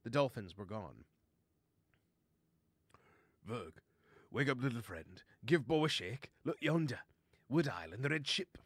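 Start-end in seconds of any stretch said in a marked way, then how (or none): 3.5-8.6 lightly put-on sea lion's accent; a touch of accent, rousing a friend; Bolwag accent. Sea lion wakes his little friend, lightly accented voice. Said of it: "that was the accent I used for Bolwag".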